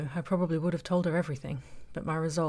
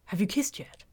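conspiratorial whisper; 5 semitones higher, 3 dB louder than usual. Acted. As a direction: whisper it like a juicy secret. Friend asks a secret question.

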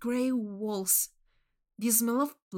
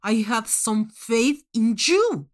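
cold disappointed judge; 8 dB louder, slower than usual. Acted. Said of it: "Manx said".

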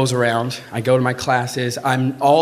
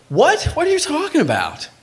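panicked disbelief. Retold or imitated. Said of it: "I feel my hands start to shake".

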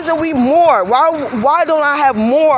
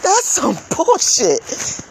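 slow, softer answer through a laugh; laughing disgust; 4 semitones higher, 4 dB quieter, much slower than usual. Real, not acted. Answering her own question to viewers, slow bitter laugh.

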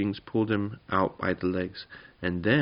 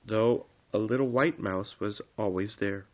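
softer, measured storybook reading; story narration; 4 dB quieter than usual. A narrator's reading. Reader telling the boys a goblin tale, story narration. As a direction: read it gently as a bedtime story.

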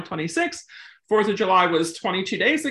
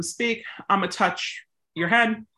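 right way. Shown as a demonstration. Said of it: "you can have that breath pause between them".

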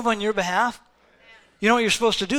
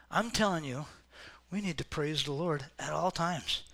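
earnest quiet; 5 semitones lower, 10 dB quieter than usual. Real, not acted. Preacher drops voice intimately.

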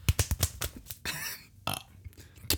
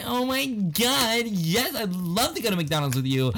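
hammed-up camp voice; 5 semitones higher, slower than usual. Continues camp gay impression.

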